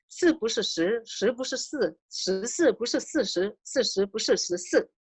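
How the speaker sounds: teacher racing through the twister the second time. Shown as a demonstration. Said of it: "let's do it a little bit quickly".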